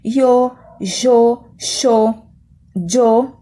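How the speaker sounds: "yo" said several ways, one of them like "xô"; regional variants of yo. Shown as a demonstration. Teacher showing students each way to say "yo". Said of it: "Eu posso pronunciar o pronome eu".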